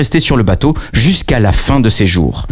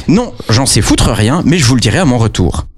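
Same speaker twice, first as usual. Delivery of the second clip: offhand hero. Acted. Maurice answers ferryman.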